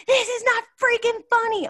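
high, loud mock protest; mock annoyed husband. Husband annoyed at her laughing, loud high mock protest. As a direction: whine it like an irritated husband. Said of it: "And he's like".

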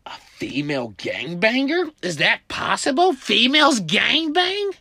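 from whisper to loud high shock; rising disbelief. Retold or imitated. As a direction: build from hush to shocked disbelief. Shocked question.

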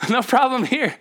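high, light mock-carefree; wife's chirpy denial. Husband imitating wife shrugging off sickness. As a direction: sing it off like nothing's wrong. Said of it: "she's like".

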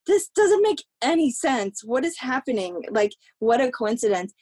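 baffled, can't make sense of it; disbelief. Retold or imitated. Reacting to her co-star's family news, high disbelief.

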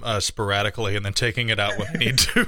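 talking around chewing gum; words through a mouthful of gum; chewing gum while talking. Real, not acted. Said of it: "I'm chewing nicotine gum".

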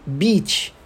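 "beach" with a long ee vowel; isolated "beach", clear English ee. Shown as a demonstration. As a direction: model "beach" slowly as a single word with ee. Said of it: "o E A tem som de I".

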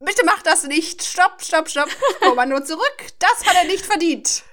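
high-pitched, acted pleading; urgent pleading. Bella begging Rosalie to spare Jacob, urgent pleading. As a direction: beg her to stop.

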